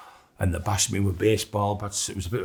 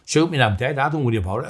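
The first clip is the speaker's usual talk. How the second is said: retold shout, higher and louder; yelling at the gunman with a shotgun; defiant shout; 5 semitones higher, 5 dB louder, faster than usual. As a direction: dare him to pull the trigger. Daring gunman to shoot him.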